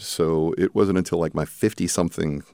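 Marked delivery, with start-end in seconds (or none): none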